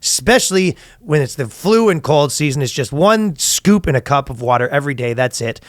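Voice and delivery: podcast sponsor read. Real, not acted. Host pitching a supplement to listeners, ad read. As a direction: read the sponsor copy, measured and emphatic.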